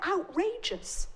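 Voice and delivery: ordinary delivery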